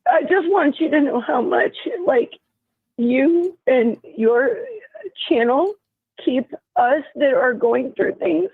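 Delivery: halting, emotional, with long gaps mid-sentence; searching for words. Real, not acted. Stroke patient thanks host for the channel, searching for words. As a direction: struggle to get each phrase out. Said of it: "I'm trying to find my words".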